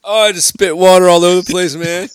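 words through real laughter; talking mid-laugh, high. Real, not acted. Bursting with laughter at story.

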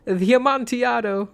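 high, stretched, nervous-merry "The Amontillado"; cling to the joke with a high voice; pleading jolly high voice; Fortunato's voice. Acted. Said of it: "a sad voice".

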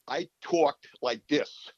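slow, heavy New York accent put on; a drawn-out, thick New York accent. Shown as a demonstration. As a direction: lay on the old New York accent, slowly. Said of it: "thickest New York accent you've ever heard".

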